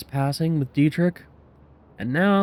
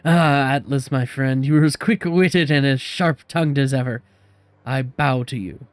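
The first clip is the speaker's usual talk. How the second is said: slipped into Irish; 4 dB louder than usual. Acted. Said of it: "he tilted Irish there for a minute".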